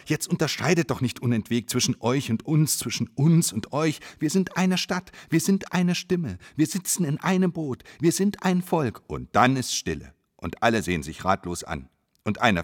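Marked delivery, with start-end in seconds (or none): 0.1-9.0 shout. Acted. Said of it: "schreit einer ganz laut".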